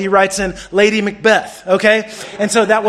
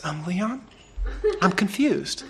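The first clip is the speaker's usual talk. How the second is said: hushed and much softer, teacher calling a student aside; retold whisper; 10 dB quieter, slower than usual. Teacher quietly telling Leon at her desk, hushed. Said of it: "Missus Coffey's just whispering".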